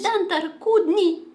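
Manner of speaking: Dantar Kudni said slowly, relishing each syllable; savoring the word. Shown as a demonstration. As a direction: roll Dantar Kudni around lovingly. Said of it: "I really like how it sounds".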